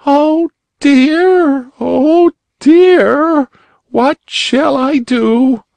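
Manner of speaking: put-on high, sobbing little girl's wail. A narrator's reading. Little girl sobbing alone by the fireplace, high and tearful. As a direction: sob it out in a high child's voice. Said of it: "sobbed a voice".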